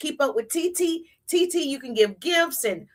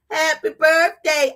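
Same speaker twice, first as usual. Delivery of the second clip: extra; 3 semitones higher, 5 dB louder, slower than usual. Shown as a demonstration. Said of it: "I'm extra".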